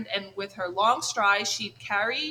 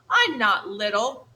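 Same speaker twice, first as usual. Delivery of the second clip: muttered snap; 6 dB louder than usual. Acted. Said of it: "snapped Thorn under his breath".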